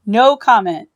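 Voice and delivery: curt refusal. Acted. Doctor curtly refusing comment.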